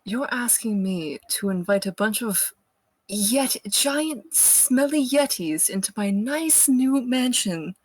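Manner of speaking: incredulous, pitch climbing through the complaint; exasperated in-character protest; exasperated disbelief. Acted. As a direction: stress the indignity of it, voice rising. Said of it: "pinching the bridge of my nose".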